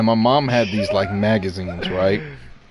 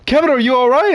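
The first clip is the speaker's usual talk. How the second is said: high mock-panicked question; panicking mom; 11 semitones higher, 4 dB louder, faster than usual. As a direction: blurt it out like an alarmed mother, hammed up. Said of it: "my mom was panicking".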